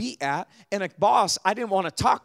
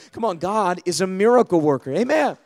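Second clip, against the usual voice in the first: rousing preacher's shout; 6 dB louder than usual. Real, not acted.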